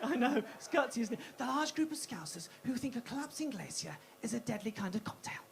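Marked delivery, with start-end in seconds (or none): 1.4-5.4 hushed wildlife documentary whisper; breathy Attenborough-style hush; nature documentary narrator. Acted. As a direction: narrate her like a rare animal, hushed. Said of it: "Got Lynn Brooke for this".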